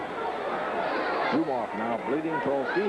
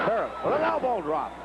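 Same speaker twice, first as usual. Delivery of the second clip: excited call; 6 semitones higher than usual. Real, not acted. Ringside announcer calls an elbow drop, excited. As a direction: pitch leaps up on the move. Live play-by-play, big move.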